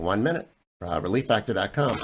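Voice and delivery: low, lightly voiced producer prompt; producer's cue in my ear. Producer reminding host of ad read, a low cue. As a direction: mumble the cue like an aide off mic. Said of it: "people like Adam in my ear saying".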